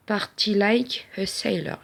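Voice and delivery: slow English with a French accent. Real, not acted. Vlogger reading out sticker text, French-accented English. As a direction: read the English phrase slowly in a French accent. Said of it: "Excusez-moi pour mon accent".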